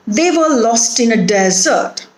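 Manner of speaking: desert stressed on its first syllable, DEZ-ert. Shown as a demonstration. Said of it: "the stress is on the first syllable".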